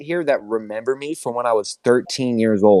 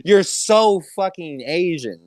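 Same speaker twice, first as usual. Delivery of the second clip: slow, higher put-on Asian accent; a hammed-up Asian accent, drawn out; slow mocking Asian accent; 6 semitones higher, slower than usual. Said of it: "I love your Asian accent".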